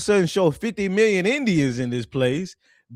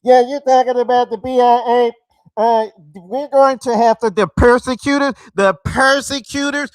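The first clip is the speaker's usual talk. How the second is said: louder, higher hammed-up Simon over a cheap mic; mocking Simon; 4 semitones higher, 8 dB louder than usual. Streamer parodies Simon's mic voice, loud and high. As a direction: blare it like a bad microphone. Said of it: "how he talk on that bullshit ass microphone".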